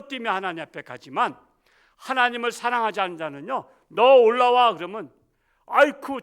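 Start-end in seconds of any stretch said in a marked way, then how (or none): 3.9-4.7 loud commanding call, high; stern loud summons. Acted. God summoning an unbeliever, loud and commanding. 5.7-6.2 loud high frightened exclamation; startled cry. Acted. Unbeliever startled by the reaper's call, loud yelp.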